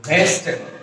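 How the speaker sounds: ভেজিটেবল said as ves-tebol, middle i gone; American contracted pronunciation. Shown as a demonstration. Teacher modelling the pronunciation, ভেজিটেবল as ves-tebol. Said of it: "উচ্চারণটা হচ্ছে".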